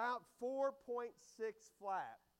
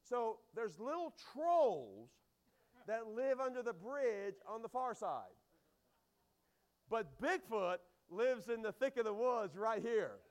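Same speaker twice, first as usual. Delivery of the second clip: slow, hushed bedtime-scare voice telling of trolls and Bigfoot; spooky tale for kids; 5 dB louder, slower than usual. Retold or imitated. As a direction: drag it out slowly to spook the kids. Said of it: "And I would tell my kids".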